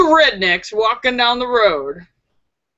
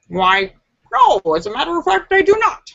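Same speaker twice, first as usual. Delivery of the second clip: prim rabbit; 5 semitones higher than usual. Retold or imitated. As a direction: play the polite rabbit, climbing up in pitch. Rabbit voiced in joke.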